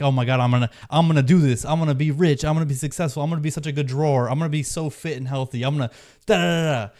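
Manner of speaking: mildly hyped naive optimism; imitated excitement. Beginner dreaming of getting rich and fit, mock excitement. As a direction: rattle off big plans like an eager beginner, ending in da-da-da. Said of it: "you're just filled with excitement".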